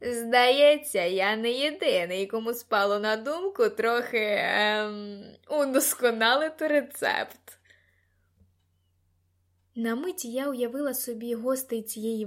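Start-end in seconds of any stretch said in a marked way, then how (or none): 0.0-7.6 loud party-goer's holler; big, raised voice right at the ear; bellowing in her ear. A narrator's reading. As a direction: bellow it over the music, hesitating on the "ем". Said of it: "загорлав мені на вухо".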